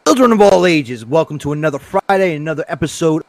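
ringmaster. Acted. Host opens show like ringmaster.

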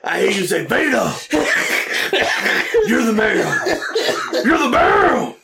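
lightly voiced wrestler promo with laughter breaking through; half-laughing mock promo to Hogan; Vader promo. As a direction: keep the heel swagger while cracking up. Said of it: "pretty good Vader promo".

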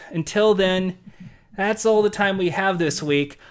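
winded, catching breath. Real, not acted. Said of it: "I'm out of breath".

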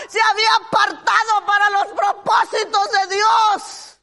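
impassioned sermon voice, crying out the story; fervent preaching. Acted. Preacher telling the church Bartimeo's cry, impassioned.

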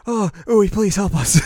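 hammed-up cry for rescue; mock desperate plea to Ui; pleading June. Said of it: "June's like".

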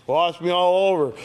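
loud, eager wash me all over; confident enthusiasm. Acted. Preacher repeats Peter's plea to Jesus, loud and confident. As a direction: blurt it out full of confidence. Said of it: "Lots of confidence there".

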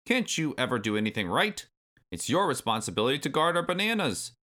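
scolding granddad, pitched high; high, exasperated old-timer rant; Cranky Kong. A narrator's reading. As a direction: scold him like a crabby elder.

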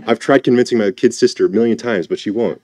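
lightly voiced fed-up big sister; a hint of an exasperated sibling complaining; Martha. Martha complaining about her kid sister, lightly acted exasperation. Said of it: "I can hear it in Martha's voice".

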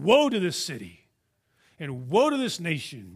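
preacher's imitation of a prophet's pronouncement; Isaiah declaring woe. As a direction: lean hard on each woe, then let it fall. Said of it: "he declared woe over cities".

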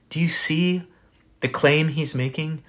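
unvoiced whisper, leaning in. Real, not acted. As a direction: draw them close with a whisper. Sudden whisper to congregation.

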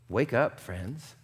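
quietly urging, voice dropping low; a hushed plea to wake up; soft wake up call. Acted. Preacher softly urging her friends to wake.

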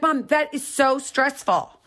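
high, slow, mock-whiny daughter. Daughter complaining to mom, high and whiny. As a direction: whine it like the daughter. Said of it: "She's like".

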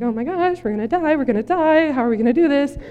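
pánico actuado, leve; freaking out. Acted. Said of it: "one guy is freaking out".

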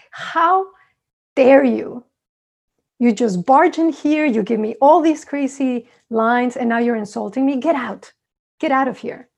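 mock outraged telling him to get out; hammed-up indignant rant; indignant anger. Hermit angrily throws visitor out.

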